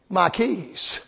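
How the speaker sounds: quiet punchline after a long pause; hushed reveal. Real, not acted. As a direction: drop it to a hush for the payoff. Dramatic reveal of found keys.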